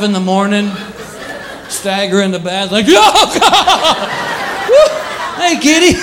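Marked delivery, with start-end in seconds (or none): 2.9-6.0 very high startled cries, then sweet; startled yelp. Retold or imitated. Half-asleep man finding the cat on the toilet, shocked and high. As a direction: jump at the sight, then greet the cat.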